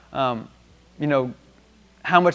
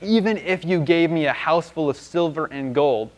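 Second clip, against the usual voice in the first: slow, drawn-out hint with weight on "Even"; pointed hinting. Acted. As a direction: stretch it out as a broad hint. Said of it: "kinda like a hint, hint".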